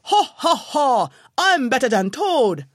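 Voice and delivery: loud high braying boast; donkey bawling at the milepost; bawled boast. A narrator's reading. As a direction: crow it out in triumph. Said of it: "he bawled".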